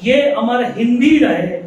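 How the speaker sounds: measured, ringing poetry recital; poem recitation. Acted. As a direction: declaim each line in measured phrases, pausing between them.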